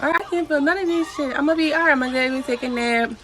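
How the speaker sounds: laughing with relief, pain gone; high, light and happy; relieved laughing. Retold or imitated. Relieved once the epidural works.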